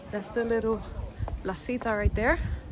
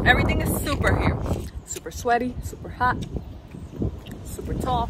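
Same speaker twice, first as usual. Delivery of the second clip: excited; 4 semitones higher, faster than usual. Real, not acted. Playful super chant.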